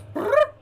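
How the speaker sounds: very high little trill; tiny high-pitched animal call; owlbear cub noise. Acted. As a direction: squeak out a short creature chirp. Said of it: "pops its head out of Eden's backpack and goes".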